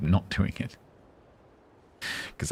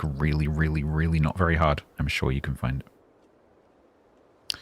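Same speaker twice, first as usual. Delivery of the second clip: very slow, lower, teasing; sarcastic drawl; 3 semitones lower, slower than usual. Acted. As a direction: drag it out mockingly. Teasing viewer about finding command.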